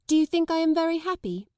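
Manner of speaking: high, sharp wounded retort; bitter retort. A narrator's reading. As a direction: throw it back bitterly. Sarah bitter, marching off.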